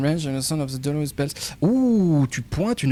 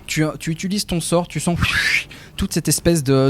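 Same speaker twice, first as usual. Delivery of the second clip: ordinary delivery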